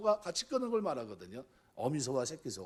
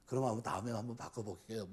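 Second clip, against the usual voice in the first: softer, lower, conciliatory reply; gentle concession; 4 semitones lower, 6 dB quieter than usual. Acted. Church member smoothing over a complaint, gently conceding. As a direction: give way mildly, keeping it soft. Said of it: "이렇게 하면서 부드럽게 넘어가야 되는데".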